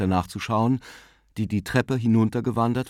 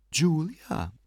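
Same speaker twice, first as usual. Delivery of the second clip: summary, brisk; 7 semitones higher than usual. A narrator's reading. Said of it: "sagte Tante Kate summarisch".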